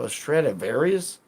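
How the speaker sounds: put-on questioning British accent, rising at the end; lightly put-on British voice. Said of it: "I broke out of character".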